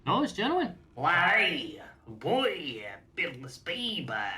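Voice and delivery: put-on over-the-top Scottish accent. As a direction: ham up a Scottish dwarf. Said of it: "Scottish accent".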